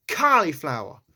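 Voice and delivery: "cauliflower" with an open "cah" first syllable; New York pronunciation. Shown as a demonstration. Accent learner showing an easier word, New York "cauliflower" with "cah". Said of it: "Cauliflower is a bit easier to do".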